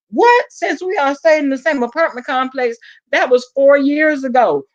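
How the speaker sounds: high-pitched stunned what; shocked disbelief. Retold or imitated. Telling friend about it, shocked and high.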